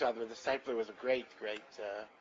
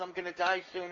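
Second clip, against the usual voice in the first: raised, complaining voice; a touch of a yell, a bit higher; 6 semitones higher than usual. Retold or imitated. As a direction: call it out in an old man's lament. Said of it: "He's yelling".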